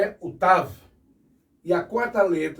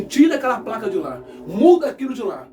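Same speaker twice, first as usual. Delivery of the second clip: fast, raised, indignant demand; hammed-up furious complaint; mock angry Pharisees; 5 semitones higher, faster than usual. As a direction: play the outraged priests banging on Pilate's door. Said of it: "vão bater lá na porta do, do Pilatos, assim".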